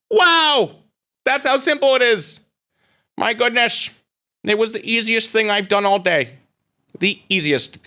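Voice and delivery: gloating excitement. Acted. Gloating over easy win.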